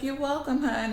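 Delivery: lightly voiced doting granny; kindly old lady. Old lady answering a grateful boy, kindly.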